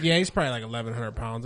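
low, casual imitation of an unbothered uncle; nonchalant. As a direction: shrug it off while quoting him. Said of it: "my uncle nonchalantly goes".

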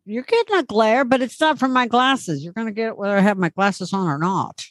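words pushed through clenched teeth; talking through teeth. Pretend. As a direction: speak without opening the jaw. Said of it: "that's how I'm gonna talk, through my teeth".

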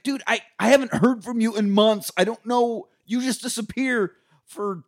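exasperated girlfriend, lightly voiced. Girlfriend scolds the returning boyfriend, lightly indignant. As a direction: tell him off for vanishing for months.

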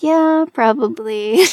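put-on slow, drawn-out Staten Island accent. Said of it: "talk like this for the rest".

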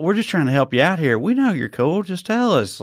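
lightly imitated good-cop coaxing; friendly interrogator. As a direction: pitch it up, cajoling like an agent. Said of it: "agent interrogates somebody".

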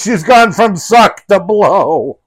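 movie quote voice. Retold or imitated. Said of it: "quoting Spaceballs line".

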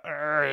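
drawn-out comic "arrr"; imitated seething noise; mock seething growl. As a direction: growl like someone fuming in the background. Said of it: "this guy is seething in the background".

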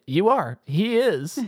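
imitating Joe Pesci. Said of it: "Pesci looks at him and he's like".

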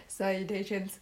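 "Salutations" level and flat in pitch; tone one. Shown as a demonstration. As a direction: say "Salutations" on one even Chinese tone. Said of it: "That's tone one".

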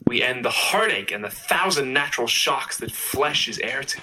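put-on American-guy recital; American accent. Shown as a demonstration. Co-host reciting the soliloquy on request, American accent. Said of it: "do Hamlet as an American guy".

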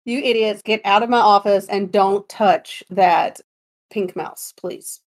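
lightly voiced gruff old boss, slow; gravelly old tycoon. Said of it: "echoes the quote".

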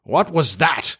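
sudden alarmed captain; crying out. A narrator's reading. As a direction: start up in alarm.

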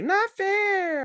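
very high pout; very high pouting mom; pouting mother. Retold or imitated. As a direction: whine it very high.

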